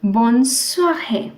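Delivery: bonne soirée said slowly, bonne swa-RAY; slow model of bonne soirée; French bonne soirée. Shown as a demonstration. Teacher slowly models bonne soirée for students. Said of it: "You'll put an accent".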